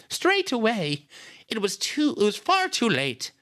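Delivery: grieving sister. A narrator's reading. Nita answers about calling the police, distressed.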